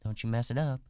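put-on warning young woman. Curly's wife voice.

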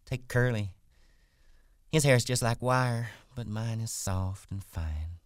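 self-satisfied wife. Acted. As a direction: show off as a vain wife. Voices Curley's wife, vain.

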